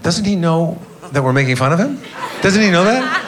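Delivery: laughing disbelief rising high; incredulous. Retold or imitated. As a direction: giggle in disbelief at the absurdity. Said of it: "looked at each other like".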